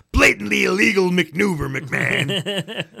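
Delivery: lightly voiced Jesse; a hint of Jesse scolding McMahon; Jesse's commentary. Host imitating Jesse complaining to McMahon, lightly voiced. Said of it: "couldn't help but hear Jesse".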